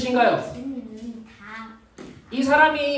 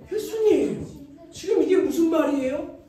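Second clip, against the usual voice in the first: Peter remonstrating. Acted. Peter takes Jesus aside, remonstrating in disbelief. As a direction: plead and scold in exasperation. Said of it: "예수님을 향해 베드로가".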